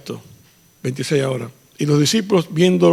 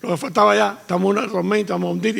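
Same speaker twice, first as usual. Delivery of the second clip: higher, frightened cry of the disciples; mock panicked disciples; 4 semitones higher, faster than usual. Pastor acting out the disciples in the storm, mock panic.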